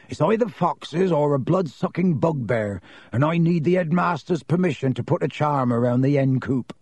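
rustic groundskeeper's grumbling explanation; Hagrid, rustic. Acted. Groundskeeper explaining dead roosters to Harry, rustic. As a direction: explain the trouble in a country voice.

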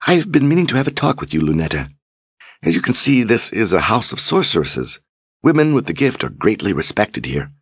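coaxing sorceress. Acted. Leoma tempting Lunetta to join the sisters, coaxing. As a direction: lure her in with flattery.

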